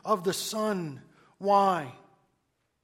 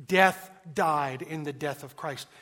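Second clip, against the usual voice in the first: proclaimed; 5 dB louder than usual. Acted. Repeats Owen line at full voice.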